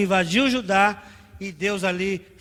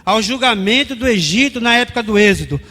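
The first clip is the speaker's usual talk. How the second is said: raised, emphatic pulpit delivery; forceful preaching; 3 semitones higher, 7 dB louder than usual. Real, not acted. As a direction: preach it out to the congregation.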